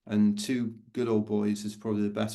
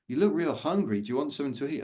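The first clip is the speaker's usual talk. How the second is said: friendly guy; 4 semitones higher, faster than usual. Retold or imitated. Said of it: "Like, real friendly guy".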